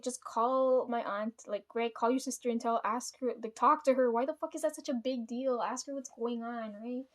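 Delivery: exasperated retold urging; wkurzenie przy relacji. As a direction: urge insistently, retelling your own irritation. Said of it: "I'm fucking pissed".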